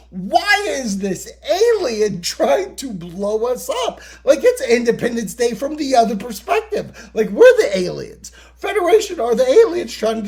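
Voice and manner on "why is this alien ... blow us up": bystander quote. Retold or imitated. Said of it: "someone ... being like".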